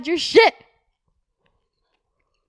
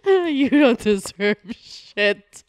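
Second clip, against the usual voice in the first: emotional; much slower than usual. Acted. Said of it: "do you hear how emotional my voice sounds".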